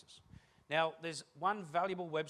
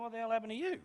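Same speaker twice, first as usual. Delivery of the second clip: mock dismay; 7 semitones higher, 3 dB louder, faster than usual. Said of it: "And you go".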